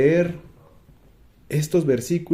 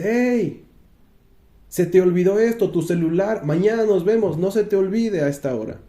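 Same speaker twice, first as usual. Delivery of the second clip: high, raised call to a friend half a block away; calling out down the street; 5 semitones higher than usual. Retold or imitated. Calling after a friend who forgot his phone, raised and high. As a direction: shout after someone walking off. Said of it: "usted grita y le dice".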